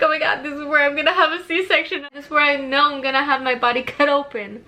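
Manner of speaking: mock-panic at the room, then a laugh; retold panic.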